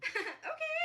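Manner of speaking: a little nervous laugh into a high okay; surprised giggle, okay pitched high; awkward laugh. Retold or imitated. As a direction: laugh it off, then lift the okay way up. Awkward reaction to candle gift.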